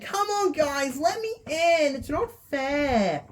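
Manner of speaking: put-on high, thin pleading little girl; lightly voiced frightened girl. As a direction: beg to be let in like a scared child. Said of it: "She's like".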